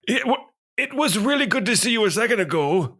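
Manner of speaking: high, fast laughing quip. Real, not acted. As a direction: laugh through the joke. Player joking, laughing.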